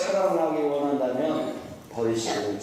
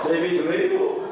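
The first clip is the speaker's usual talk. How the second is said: Gangwon dialect; 2 semitones higher, 3 dB louder, slower than usual. Retold or imitated. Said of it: "강원도는 뭐라고 한대요".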